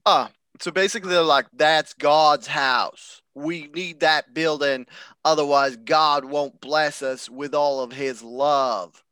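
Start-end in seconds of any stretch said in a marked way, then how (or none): 1.5-9.0 slow, drawn-out southern-tinged Jersey; second-try Jersey accent. Acted. Podcaster retrying the church complainers' plea, slow mock Jersey accent. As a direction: drawl it like an aggrieved churchgoer in bad Jersey accent. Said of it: "That was closer".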